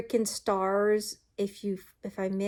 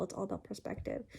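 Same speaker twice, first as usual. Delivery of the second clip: soft repeat; 13 dB quieter, faster than usual. Real, not acted. Repeated to herself.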